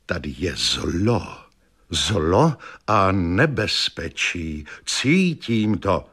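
low, slow doom-laden seer; slow, low warning of evil; ominous fortune teller. Acted. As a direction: intone it like a prophetess sensing evil. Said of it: "úplně couvla".

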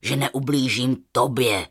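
very low lion voice giving his word; deep, earnest lion promise; reassuring lion. A narrator's reading. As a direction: vow it deep and solemn. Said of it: "Přerušil ho lev".

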